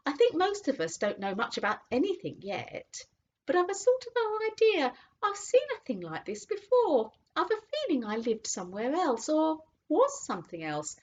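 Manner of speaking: a horse groping for a memory; slow horse voice. A narrator's reading. Horse recalling its past, slow and dreamy. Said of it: "said Strawberry very slowly".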